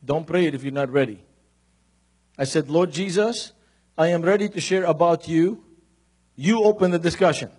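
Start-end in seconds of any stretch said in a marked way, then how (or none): 2.7-7.5 prayer demo. Shown as a demonstration. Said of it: "I'm gonna teach you this prayer".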